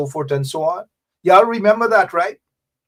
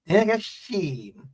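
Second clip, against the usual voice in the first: soft Guyanese country lilt; rhythmic Corentyne twang; 5 dB quieter than usual. Shown as a demonstration. Jibe at the regime, rhythmic Guyanese twang. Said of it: "You say it with kinda like a nice rhythm".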